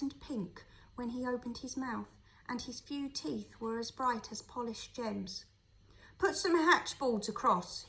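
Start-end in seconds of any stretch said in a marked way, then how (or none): 6.2-7.8 loud curt order; gruff master snapping an order, louder. A narrator's reading. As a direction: bark it at the boy. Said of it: "he ordered".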